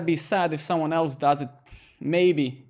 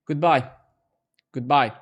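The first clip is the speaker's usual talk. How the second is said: louder, singsong mock goodbye; 6 dB louder than usual. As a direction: wave off the viewer in mock farewell. Mock farewell to leaving viewer.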